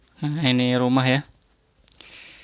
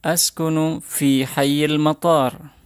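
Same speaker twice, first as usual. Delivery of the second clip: slow model phrase; slower than usual. Shown as a demonstration. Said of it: "ucapkan setelah saya".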